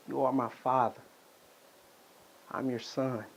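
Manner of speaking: soft, subdued confession; quiet sincerity. Acted. Son declaring himself to his father, quiet and sincere. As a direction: lay it out softly, with long pauses.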